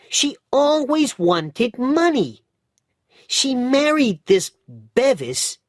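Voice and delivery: put-on high, loud, indignant street boy; lively bootblack boy, fired up against Minna; boy's voice, determined and cross; Dick's voice. A narrator's reading. Narrator voices Dick.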